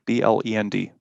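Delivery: B L E N D said as separate letters; spelled out letter by letter. Shown as a demonstration. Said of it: "how you say that word?".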